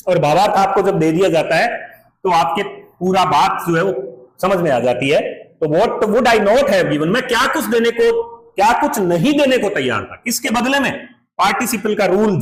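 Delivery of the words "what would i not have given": very slow, stressing not; teacher repeating the line slowly; slow reading aloud. Shown as a demonstration. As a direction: read it slowly again, leaning on not. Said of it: "teacher reads text line again".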